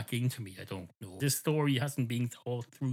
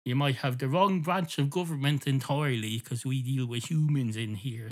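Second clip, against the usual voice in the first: automated system voice; 3 semitones higher, 4 dB louder than usual. Retold or imitated. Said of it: "it automatically goes".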